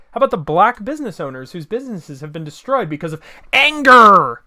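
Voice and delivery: building from firm to a loud angry burst on anger; angry outburst. Real, not acted. Ranting at viewers about destroyed businesses, angry. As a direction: let the frustration explode on the last word. Political rant, rising anger.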